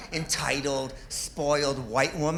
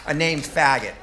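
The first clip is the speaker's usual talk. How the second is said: louder insistent repeat; 4 dB louder than usual. Shown as a demonstration.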